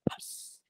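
soft unvoiced hiss of a dud smoke bomb; fizzle noise. The tennis ball pops on the ground, tiny hiss sound. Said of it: "and it just goes".

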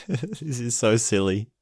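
laughing while talking. Real, not acted. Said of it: "Oh, I can't stop laughing".

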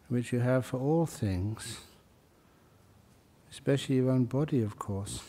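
soft, unhurried meditation voice; guided meditation. Real, not acted. Teacher guiding meditators up through the body, soft meditation voice. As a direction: ease gently through a body scan, pausing between phrases.

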